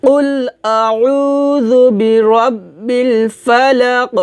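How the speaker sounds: recitação lenta, vogais esticadas, eco no fim de "ফালাক"; recitação guiada. Shown as a demonstration. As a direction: conduza os alunos devagar pelo verso. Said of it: "আমার সাথে বলেন".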